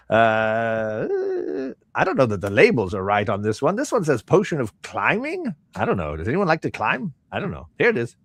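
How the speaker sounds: swooping, questioning merchant patter; unsure shopkeeper. Acted. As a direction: puzzle over your own wares as a merchant.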